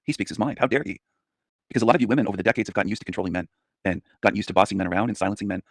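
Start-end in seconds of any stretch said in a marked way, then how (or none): 0.0-1.0 mock outraged viewer. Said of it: "you come to my channel and say".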